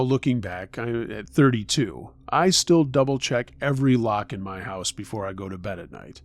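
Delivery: measured true-scary-story narration, falling at phrase ends. A narrator's reading. Victim recalling a stalker to listeners, story narration. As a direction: narrate it as an unsettling personal account.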